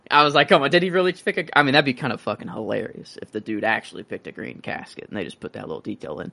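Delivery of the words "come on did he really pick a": incredulous. Retold or imitated. Incredulous at the green casket.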